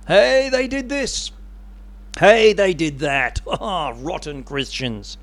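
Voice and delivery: slow, drawn-out calling out of blame; mock accusation. Slanderers call out false blame on Christians, mock accusation. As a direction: imitate an accuser pointing the finger.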